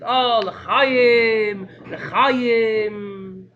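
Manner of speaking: loud, ringing Purim toast; festive toast. Retold or imitated. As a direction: raise the glass and call it out joyfully. Rebbe toasts at Purim feast.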